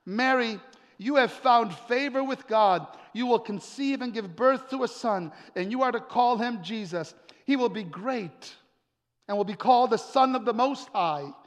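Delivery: full-voiced preaching. Preacher telling a congregation of the angel's news, proclaiming.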